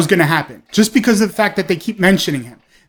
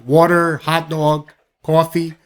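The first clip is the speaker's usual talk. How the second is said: lower-pitched, lightly imitated New York accent; 3 semitones lower than usual. Shown as a demonstration. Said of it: "New Yorkers have their accent".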